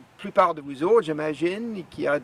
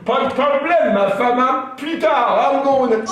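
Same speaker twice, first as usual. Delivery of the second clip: put-on old Acadian storyteller, franglais, lively; Acadian character voice; 4 semitones higher, 11 dB louder than usual. Stand-up character telling the crowd about his wife, Acadian accent. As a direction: play Lucien grumbling about wife and doctor.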